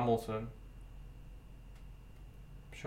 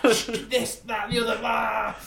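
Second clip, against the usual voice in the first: mock gushing; 7 semitones higher, slower than usual. Mocking his gushing message.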